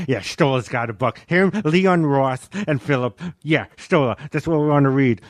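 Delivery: lightly voiced, halting grumble; a hint of another comic's cadence; Colin Quinn impression. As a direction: toss the names out haltingly in a mild impression. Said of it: "the speaker doing Colin Quinn going".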